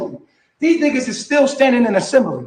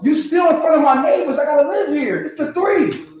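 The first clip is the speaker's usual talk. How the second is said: raised, scolding shout at his wife; angry yell; 3 semitones higher than usual. Real, not acted. Man shouting at his wife outside: angry, raised scolding. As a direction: yell it out so the neighbors hear. Yelling at wife before neighbors.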